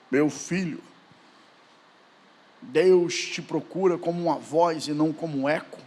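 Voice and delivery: put-on low, soft counsel of an older preacher; Gilmar Santos. Pastor corrects an admiring fan, low fatherly counsel. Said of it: "o pastor Gilmar Santos falou pra ele assim".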